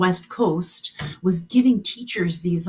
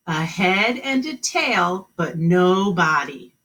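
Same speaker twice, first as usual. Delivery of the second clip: slow repeat; slower than usual. Shown as a demonstration. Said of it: "the new riddle".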